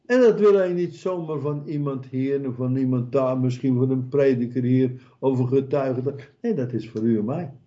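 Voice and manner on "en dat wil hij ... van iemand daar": normal talking voice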